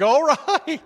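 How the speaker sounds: high, loud strained "All right"; overwhelmed yelp. Retold or imitated. Preacher voicing himself overwhelmed by God, high strained yelp. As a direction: cry out, swamped by demands. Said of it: "I'm like".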